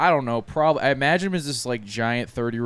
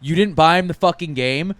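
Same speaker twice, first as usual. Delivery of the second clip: mom; 5 semitones higher, 7 dB louder than usual. Retold or imitated. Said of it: "my mom was just like".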